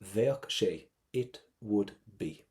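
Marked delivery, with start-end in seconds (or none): 0.0-0.9 Bheadh sé as "vyok shay"; V start, strong CK. Shown as a demonstration. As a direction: say Bheadh sé with a V first and a hard K ending Bheadh. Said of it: "Give me a V at the start and a strong C K".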